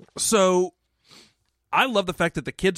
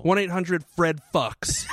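mock announcer shout; 3 semitones higher, slower than usual. Joking fake hotline number.

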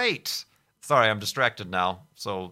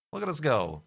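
laughing; 7 semitones higher than usual. Real, not acted. Laughing at own build.

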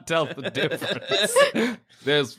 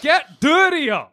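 slow commanding shout; 9 semitones higher, 4 dB louder, slower than usual. Acted. Ordering Ditto to get filthy.

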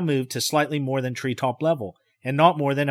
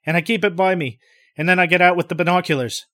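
rising panic; 4 semitones higher, 4 dB louder than usual. Acted.

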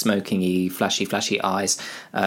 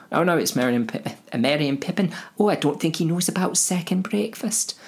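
a much higher, eager little hobbit voice; chirpy hobbit; 8 semitones higher than usual. Acted. Merry and Pippin fretting about second breakfast, high chirpy voice. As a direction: babble like an excited hobbit.

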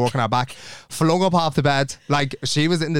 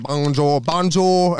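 bad French accent; much slower than usual. Shown as a demonstration. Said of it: "Imagine me".

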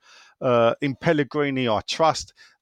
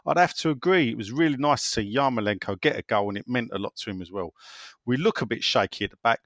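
put-on Cockney accent. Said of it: "gonna do this in a Cockney from Essex, uh, accent".

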